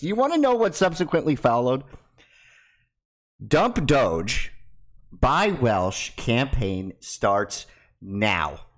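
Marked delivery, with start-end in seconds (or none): 3.5-8.7 slogan announcement. Acted.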